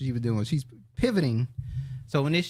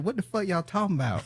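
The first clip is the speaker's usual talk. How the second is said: quick, higher Southern-accented mimicry; 4 semitones higher than usual. Cohost mimics the interviewed woman's talk, mock Southern accent. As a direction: imitate a Southern woman, a little hurried. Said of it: "That Southern accent will get you".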